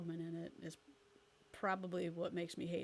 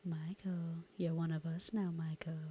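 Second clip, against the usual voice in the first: put-on Lost Boys whisper. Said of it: "that's The Lost Boys".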